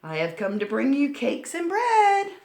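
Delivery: put-on sweet girl bringing treats; little girl voice. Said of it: "Red called out".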